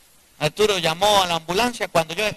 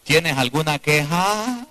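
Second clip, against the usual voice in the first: demo line for neighbour; 3 semitones lower, slower than usual. Shown as a demonstration. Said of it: "Dígale a la mujer que tenga al lado".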